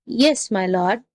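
meek answer with a rising end; meek jackal. Acted. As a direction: humour the angry master obediently. Jackal meekly answers the raging tiger.

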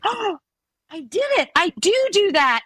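high, dawning "oh, I do do that"; sudden realization. Retold or imitated. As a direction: let it hit her, voice jumping way up. Daughter catches herself mid-habit.

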